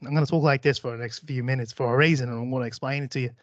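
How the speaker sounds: amateur put-on Australian accent. Shown as a demonstration. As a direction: tell it casually in a hammed Australian accent. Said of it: "try to get a little Australian".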